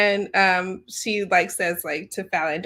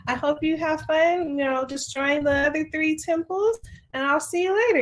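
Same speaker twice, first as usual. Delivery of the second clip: higher, sing-song taunting farewell; smug goddess voice; 7 semitones higher than usual. Retold or imitated. Lich mocking Fallon as she leaves him. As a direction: tease him sweetly as you abandon him. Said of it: "And she's like".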